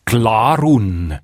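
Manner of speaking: Glarun stressed on GLA; GLA-run, weight up front; stress on first syllable. Shown as a demonstration. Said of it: "durch Akzentverschiebung auf die erste Silbe".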